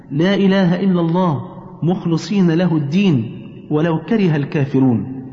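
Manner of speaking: slow recitation with pauses after each phrase; slow and easy. Shown as a demonstration. Saying post-prayer remembrances for mother to repeat, slow recitation. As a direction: recite slowly, leaving room to repeat after you. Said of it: "وأنا هقولها لك بالراحة".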